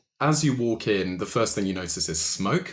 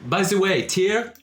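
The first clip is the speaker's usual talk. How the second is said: higher, louder, laughing suave charmer; amused French orc; 5 semitones higher, 4 dB louder than usual. Acted. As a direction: flatter them with a French purr and a laugh. GM plays Le Chat.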